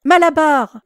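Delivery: loud high desperate cry; voice of catastrophe. A narrator's reading. Mare crying to her friend in the van, loud and desperate. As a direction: scream his name in despair. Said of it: "d'une voix de catastrophe".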